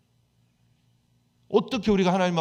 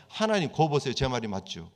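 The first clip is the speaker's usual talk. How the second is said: Jonah complaining angrily. Retold or imitated. Jonah grumbling to God that he was right, mock indignant. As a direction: play Jonah griping that he was right all along. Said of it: "그러면서 화내는 거예요".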